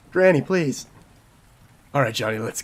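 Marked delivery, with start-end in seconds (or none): 0.1-0.9 pleading grandkid. Acted. Voicing begging grandkid.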